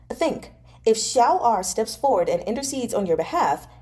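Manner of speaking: lightly voiced pushy friend; eager young noble. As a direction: talk him into coming along. Fei Shi persuading.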